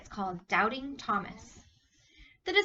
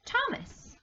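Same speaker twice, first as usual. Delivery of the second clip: calling out; 13 semitones higher than usual. Acted. Jesus calls Thomas in story.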